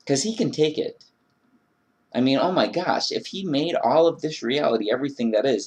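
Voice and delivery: ordinary talk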